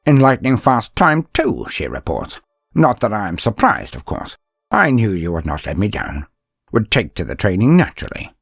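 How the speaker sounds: a touch of a dry, demanding mentor scolding gently; stern master. Retold or imitated. Mentor's quoted speech to narrator.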